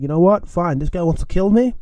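lightly acted defiance; retold fired up. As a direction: imitate a friend who has had enough. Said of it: "fired up".

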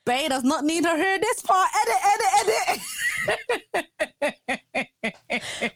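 high, laughing mock panic. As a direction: giggle out a frantic plea. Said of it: "I was like".

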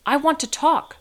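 put-on high-pitched toddler voice; small child's high, insistent plea; little child. A narrator's reading. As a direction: pipe up like an eager three-year-old. Small child begs for phone.

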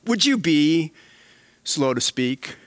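a hint of God pleading with Brad; lightly voiced God. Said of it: "It's like God saying".

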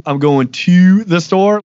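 black Baltimore accent, "to" stretched into a long fronted "tew". Shown as a demonstration. Showing a newcomer how locals say it, black Baltimore accent. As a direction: drag out the vowel in "to", black Baltimore style. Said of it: "you emphasize certain letters longer".

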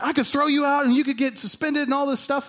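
a touch of mock outrage; mad professor, retold. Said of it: "he got so mad".

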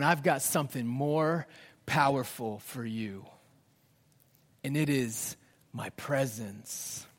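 gentle divine reassurance; tender voice of God. Acted. God's answer, softened.

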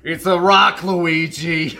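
loud cartoon Mario; hammed-up Italian plumber voice; mock Mario voice. Mario and Luigi impressions.

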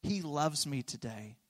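quiet sincere declaration. Shown as a demonstration. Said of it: "you can decide for yourself".

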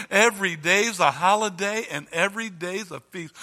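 loud beaming praise; fervent new convert. Retold or imitated. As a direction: gush it out loud. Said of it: "we come to church like this".

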